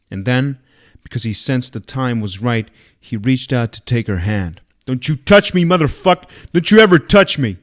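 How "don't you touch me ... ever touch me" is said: high, loud, frightened shriek; terrified scream. A narrator's reading. Nan recoils from Deke's hand, screaming in terror. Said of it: "Nan screamed".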